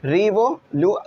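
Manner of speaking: "रिवोलू-" sounded out in separate pieces; bit by bit. Shown as a demonstration. Teacher showing students to read little by little, piecemeal "रिवोलू-". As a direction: break "रिवोलू-" off before the word ends. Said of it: "थोड़ा थोड़ा जो पढ़ लो".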